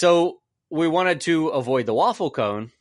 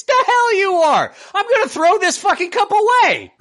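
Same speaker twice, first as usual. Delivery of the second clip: ranting shout; 12 semitones higher than usual. Acted. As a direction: blow up at the excuse, half laughing. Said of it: "that right there is why we do a rant".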